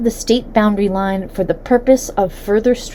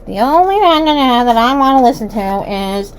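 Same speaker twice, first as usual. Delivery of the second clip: Putin imitation; 3 semitones higher, 6 dB louder than usual. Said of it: "you said something like".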